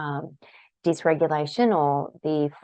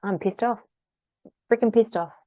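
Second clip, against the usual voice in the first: venting; 5 semitones higher than usual. Shown as a demonstration. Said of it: "Or it could be".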